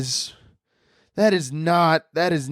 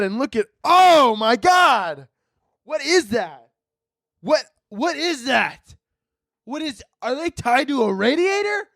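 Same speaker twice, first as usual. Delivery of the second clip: shocked saint; 7 semitones higher than usual. Acted. Saint looking down on the couples, high-pitched shock. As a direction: gasp it out high and aghast, stretching the key words.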